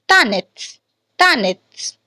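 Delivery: reduced second vowel in "Tanits"; short glimpse of E. Shown as a demonstration. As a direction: say "Tanits" with a brief, light "i" after the stressed "ta". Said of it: "short glimpse of E".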